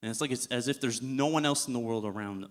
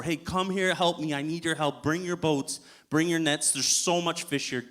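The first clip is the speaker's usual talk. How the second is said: higher, louder mock call to shore; retold yell; 5 semitones higher, 5 dB louder than usual. Peter calling boats from shore, higher and louder. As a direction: call out to the other boats for help. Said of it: "he yells out to the people".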